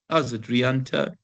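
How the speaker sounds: ordinary talk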